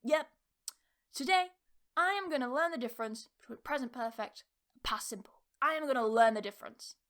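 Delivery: mildly tough, determined self-talk; acted resolve. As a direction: declare it firmly, with punched openings. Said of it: "You're gonna be tough".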